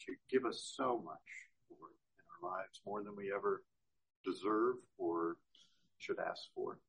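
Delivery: measured prayer with pauses between phrases; spoken prayer. Real, not acted. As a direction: lead a congregation in unhurried prayer. Leads the congregation in prayer.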